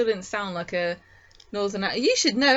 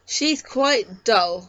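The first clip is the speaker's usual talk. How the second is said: a slow, deadpan send-up of her line; mock dull quote; 4 dB louder, much slower than usual. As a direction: drag the words out very slowly, x0.4, as a dull parody. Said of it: "And she said".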